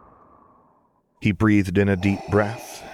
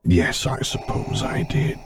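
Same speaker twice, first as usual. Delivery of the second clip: higher, slow, small admission; small Vader voice; 6 semitones higher, slower than usual. A narrator's reading. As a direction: let it slip out slowly. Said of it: "in a voice so small".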